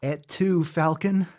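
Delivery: hammed-up Roman tragedy; mock Caesar. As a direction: play the betrayed emperor. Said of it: "you too?".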